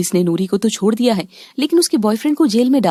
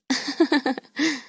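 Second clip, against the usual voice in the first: quiet laugh; 4 semitones higher, 8 dB quieter than usual. Acted. Mothers reveal their prank.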